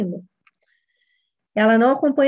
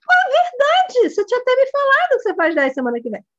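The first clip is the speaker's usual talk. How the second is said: mock surprise; 12 semitones higher than usual. Coach answering child brightly.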